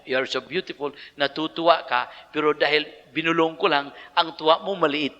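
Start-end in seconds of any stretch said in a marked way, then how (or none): 0.0-0.9 whisper. Shown as a demonstration. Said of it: "Dahil binulong sa tainga mo".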